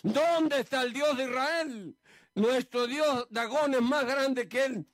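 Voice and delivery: slow, drawn-out scornful jeer; mocking taunt. Preacher voicing the Philistines taunting Israel, slow mock scorn. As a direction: sneer it out slowly, lightly acted. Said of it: "se burlaban".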